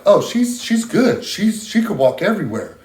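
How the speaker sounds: high, bright mock-cheery brush-off; high mock-cheerful voice of the care staff, dismissing her; mock breezy staff voice. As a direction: imitate the staff waving it all away. Mocking staff dismissing her condition.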